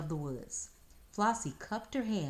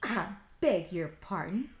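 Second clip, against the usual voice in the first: gasped; 3 semitones higher, 4 dB louder than usual. Acted. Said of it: "he gasped".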